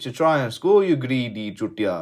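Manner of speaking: exasperated fan shouting at the screen; frustrated yell at the player. Retold or imitated. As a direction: bellow it like he's missed a sitter. Yelling at a striker on TV.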